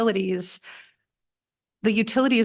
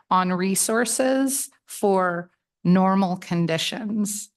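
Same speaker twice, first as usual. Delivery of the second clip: "normal conditions" slow and set apart, as if in air quotes; much slower than usual. Real, not acted. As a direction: slowly lean on "normal conditions" as a hedged quote. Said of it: "the quotes are important there".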